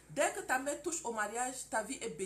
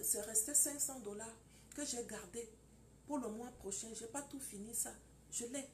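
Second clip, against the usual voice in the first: much softer, humble apology; contrite wife; 6 dB quieter than usual. Acted. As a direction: apologize quietly, head bowed. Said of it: "Ma femme ne parle plus quand je crie". (épouse repentante, voix très douce)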